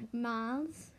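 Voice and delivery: put-on "Miles" drawn out in the friend's accent; teasing accented "Miles"; mimicked accent. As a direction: say "Miles" copying the friend's vowel. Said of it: "you have to say it in that way".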